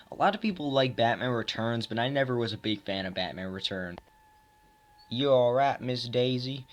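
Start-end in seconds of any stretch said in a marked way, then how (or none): 5.1-6.7 lightly put-on country accent; a touch of Southern country accent. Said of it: "I said that in a country accent".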